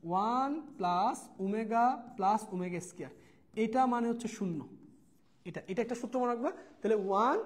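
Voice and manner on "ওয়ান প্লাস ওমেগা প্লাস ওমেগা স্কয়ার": slow dictation. Shown as a demonstration. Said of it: "তাহলে এখানে লিখি".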